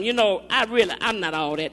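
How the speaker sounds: low-pitched, humble admission; understated humility. Shown as a demonstration. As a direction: say it modestly, voice dropped low. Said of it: "but with a humble heart".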